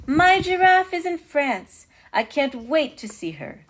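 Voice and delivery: high, loud and slow delight, easing off; excited king. A narrator's reading. King Charles hearing of his giraffe, excited. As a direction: exclaim it with royal excitement. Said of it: "was very excited to hear the news".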